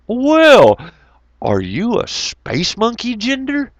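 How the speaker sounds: high teasing voice; mock teasing question. Teasing DeBess about her gender, high mock voice. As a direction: lightly ham up the silly question. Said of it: "And I was saying".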